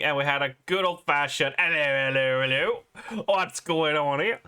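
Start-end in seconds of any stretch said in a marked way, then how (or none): 1.6-4.4 hammed-up mock British catchphrase; bad British accent. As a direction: put on a poor British bobby accent. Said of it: "pardon my shitty British accent".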